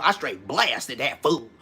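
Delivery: slow, drawn-out gangster talk, leaning on "blasted"; old-school OG. Retold or imitated. Quoting OGs from back in the day, old-school drawl. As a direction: imitate an old OG stretching the words. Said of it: "like they said back in the day, the O G".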